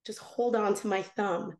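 low, calm repeated instruction; Jesus's voice. Retold or imitated. Jesus repeating his request to her, low and calm. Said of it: "he just said it again".

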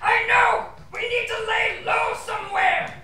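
squeaky ventriloquist dummy. Acted. Dummy yelling plans.

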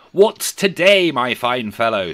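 high, loud, drawn-out question; eager calling out. Acted. Scrooge asking the boy the day, calling eagerly. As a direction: call down with hearty eagerness.

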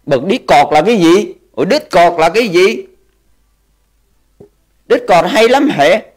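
lightly voiced confused old man; clueless grandpa. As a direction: play dumb as old Santa. Santa pretending not to know Discord.

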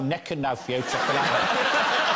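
slow, loud Black Country accent, laughing. Shown as a demonstration. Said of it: "They sort of talk like that".

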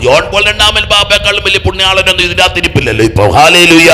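high, very loud, rising to a shouted praise; full-force preaching. Real, not acted. Preacher challenging the congregation's holiness, full-force preaching. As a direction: hammer it home to the crowd.

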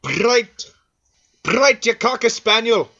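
mock exasperation. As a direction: scold yourself with over-punched words. Fixing own line take, mock rage.

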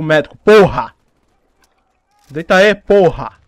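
loud furious cursing; angry yelling. Real, not acted. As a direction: bark it at the enemy. Raging at enemy medic.

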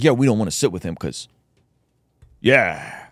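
mildly dismissive retold brush-off. Host imitating opponents declining to sit with him, dismissive. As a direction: shrug off the invitation, low-key. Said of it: "You're sounding dismissive right now".

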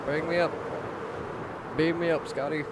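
loud, high excited call; excited shout. Acted. Floating up, excited calling.

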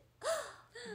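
high, sharp gasp; real startled intake of breath; surprised gasp. Real, not acted. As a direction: gasp in sudden recognition. Startled by a viewer's comment.

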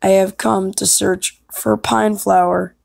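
deliberate, declarative character read; audition line. Acted. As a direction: state your purpose formally, lightly acted. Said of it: "gonna do some alternatives".

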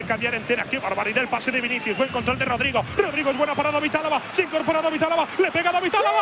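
rapid live match call; play-by-play commentary. Real, not acted. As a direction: race through the build-up of the play.

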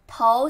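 投 rising in second tone. Shown as a demonstration. Teacher breaking down send a resume, rising tone on 投. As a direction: lift the pitch through 投. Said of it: "second tone".

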